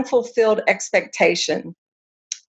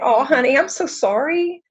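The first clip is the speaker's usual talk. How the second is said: high, gentle comforting voice; soothing mom voice; 5 semitones higher than usual. Retold or imitated. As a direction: soothe a crying toddler. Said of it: "She started talking in a soothing voice".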